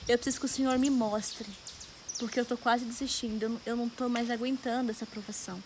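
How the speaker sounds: subdued, weary plea to God; retold tearful prayer. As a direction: plead softly as if worn out by crying. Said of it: "mas chorando muito".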